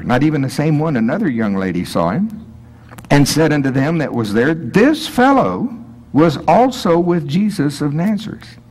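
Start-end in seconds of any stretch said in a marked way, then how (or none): 4.5-8.6 very high, slow, drawn-out accusation; accusing girl. Pretend. Second servant girl pointing Peter out, high and drawn out. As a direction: stretch it out like a tattling girl.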